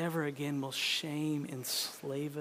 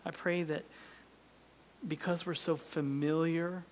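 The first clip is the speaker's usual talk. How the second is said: closing prayer. Acted.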